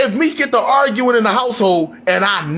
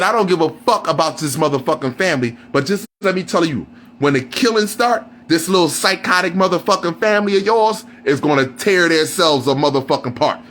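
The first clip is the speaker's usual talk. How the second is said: Vin Diesel line; 6 semitones lower than usual. Retold or imitated. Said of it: "Watch what Vin Diesel say. He said".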